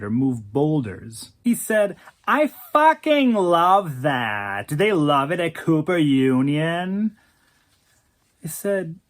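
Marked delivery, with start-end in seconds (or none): 2.3-7.1 slow, louder gushing drawl; nasally drawl. Acted. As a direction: gush lazily, slow. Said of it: "in that nasally drawl".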